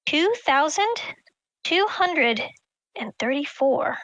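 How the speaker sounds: "Two thousand two hundred and thirty-four" said slowly, with a pause before each part; slow emphatic number. Shown as a demonstration. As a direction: spell out "Two thousand" and "two hundred" deliberately, one chunk at a time. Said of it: "Keep that in mind".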